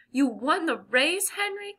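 slow, rising amazed delight; delighted cry. A narrator's reading. Sister hearing Henry won the race, delighted cry. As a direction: let the pitch soar on the name. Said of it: "cried Jessie, delighted".

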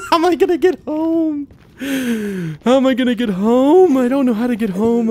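high, loud laughing wail; laughing despair. Real, not acted.

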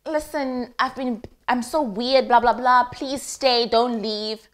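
mock tender plea, lightly voiced; imagined sweet apology. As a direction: coo it like a sorry lover. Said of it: "I thought he was gonna say".

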